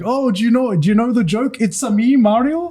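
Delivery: light high-pitched imitation of the guide; imitating Mario. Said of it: "And he's like".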